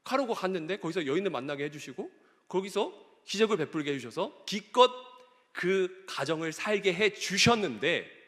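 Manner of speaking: acted protest to God, building in pitch; arguing with God. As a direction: build from recounting to baffled complaint. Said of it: "하나님께 따지듯이 이렇게 고백을".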